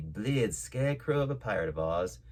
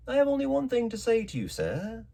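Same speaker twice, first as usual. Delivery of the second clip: calm doctor; 11 semitones higher, 4 dB louder than usual. A narrator's reading. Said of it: "rather high ... perfectly calm and steady".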